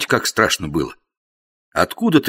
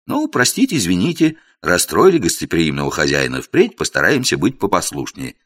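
sarcastic. Acted. Narrator's sarcastic mock apology.

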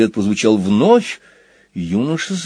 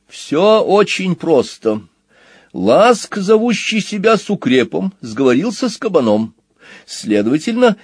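lightly voiced, higher-pitched explainer machine; matter-of-fact truth machine; 4 semitones higher than usual. Truth machine exposes the card cheats, matter-of-fact. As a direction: lay out the scheme point by point, lightly in character.

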